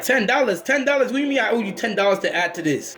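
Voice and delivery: high-pitched mock disbelief; acted-out shock at a bogus debt; incredulous. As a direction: echo it in a high, outraged voice.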